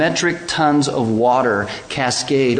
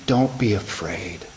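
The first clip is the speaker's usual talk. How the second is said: gentle reassurance; 4 semitones lower than usual. Acted. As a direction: comfort a frightened friend. Jesus reassures, softly.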